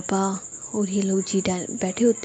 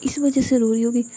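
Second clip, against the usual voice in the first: higher, louder anxious wondering; fretting over a crying friend; alarmed, worried inner voice; 4 semitones higher, 3 dB louder than usual. Acted. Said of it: "वो घबरा जाती है".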